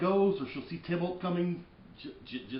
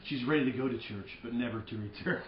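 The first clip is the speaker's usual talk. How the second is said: mock cheesy line; 2 semitones lower than usual. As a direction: say it as the corny line it is. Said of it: "It's so cheesy".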